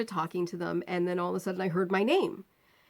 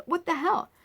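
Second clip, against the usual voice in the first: mock outrage; 10 semitones higher than usual. Outraged exclamation.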